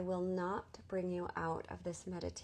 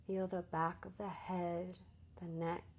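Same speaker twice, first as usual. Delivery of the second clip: guided meditation; 5 dB quieter than usual. Real, not acted. Teacher easing listeners into Yoga Nidra, calm guided meditation. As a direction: guide them gently into rest, unhurried.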